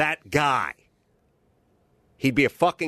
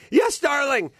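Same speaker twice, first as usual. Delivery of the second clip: fearful reply; 14 semitones higher, 3 dB louder than usual. Retold or imitated. Grandfather answering his wife, high and timid. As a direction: squeak it out like a scared husband. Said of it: "he'd go".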